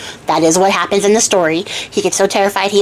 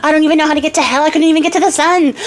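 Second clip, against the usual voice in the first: mock sobbing; 7 semitones higher than usual. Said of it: "he's crying, and he's sobbing".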